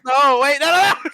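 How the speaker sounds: loud, high-pitched pleading no; rising cry to stop it; panicked protest. Real, not acted. Player protests incoming pie.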